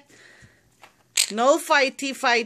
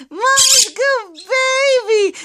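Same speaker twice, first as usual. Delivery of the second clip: put-on "Mama's good baby" slow and high, leaning on "Mama's"; high sing-song; 6 semitones higher, slower than usual. Shown as a demonstration. Owner teaching her parrot the phrase, high and slow. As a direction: pitch it up slowly so the bird can copy. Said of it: "let's do it again".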